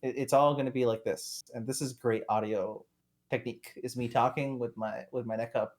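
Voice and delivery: quiet, off-mic voice, neck up to ceiling; speaking away from the mic; talking with head tilted up. Real, not acted. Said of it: "I'm gonna talk like this from now on".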